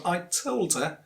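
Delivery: "told her" blended into "tol-der"; linked as one word. Shown as a demonstration. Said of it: "it looks like a single word".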